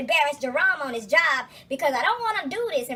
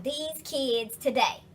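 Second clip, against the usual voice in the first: put-on old-timer complaint; 4 dB quieter, much slower than usual. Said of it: "looking at my peers and going".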